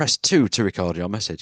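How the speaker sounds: normal talking voice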